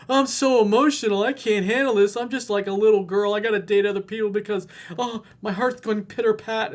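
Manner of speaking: put-on high, loud whining kid voice; mock him as a helpless little boy crying for mommy; mock whiny crybaby. Mocking emotional guy again.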